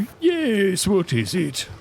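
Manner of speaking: a hint of an eager local; NPC townsperson voice.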